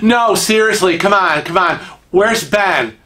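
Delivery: pressing, emphatic demand; insistent disbelief. Acted. Guy refuses to believe he is not David, insistent. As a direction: push him for the real answer, insistently.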